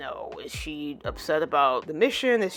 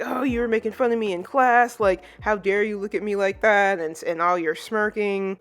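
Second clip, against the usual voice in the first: mock indignant yell, starting raised then easing; half-hearted imitation of a yelling classmate; retold yelling; 4 semitones higher, 4 dB louder than usual. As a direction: lightly act out an outraged complaint. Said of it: "he's, he's always yelling".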